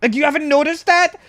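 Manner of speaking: disbelieving rant at the teammate; retold exasperated shout; incredulous yell. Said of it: "And you're like".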